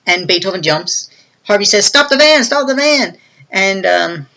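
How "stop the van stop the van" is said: high, louder panicked call; mock yell. Henchman yells to driver to stop, high panic.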